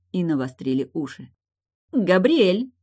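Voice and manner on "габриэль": louder and higher, beaming with joy; joyful announcement. A narrator's reading. Tilda announces her daughter's name to family, joyful and loud. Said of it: "радостно произнесла она".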